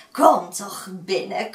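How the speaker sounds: coaxing invitation, rising at the end; slow, sweet come-in call; inviting old woman. Acted. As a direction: lure them in sweetly. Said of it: "Gelukkig sprak ze vriendelijk".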